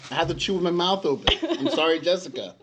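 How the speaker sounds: laughing through mouthful. Real, not acted. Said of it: "Is any of that English".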